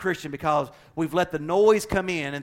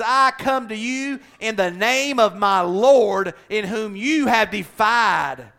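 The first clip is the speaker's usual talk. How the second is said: defiant David; 6 semitones higher, 6 dB louder, slower than usual. Acted. David's defiant reply to Goliath.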